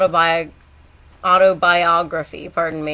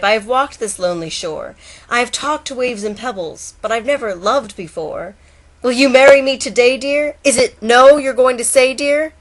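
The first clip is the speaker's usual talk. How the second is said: higher, louder courting plea; lovesick turtle; 5 semitones higher, 3 dB louder than usual. Acted. Turtle proposing to the bagpipe, higher lovesick plea. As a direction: woo her like a hopeful suitor. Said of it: "Said the turtle to the bagpipe".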